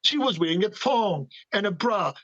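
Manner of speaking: sarcastic. Real, not acted. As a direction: sneer the obvious wrong answer, quickly. Sarcastic reply about the Queen.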